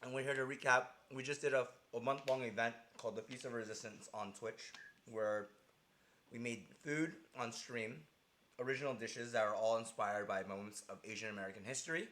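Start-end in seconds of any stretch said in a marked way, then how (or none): 0.0-6.6 talking through a bite of chicken; words around a mouthful of fried chicken; eating chicken. Real, not acted. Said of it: "I'm gonna take a bite of chicken".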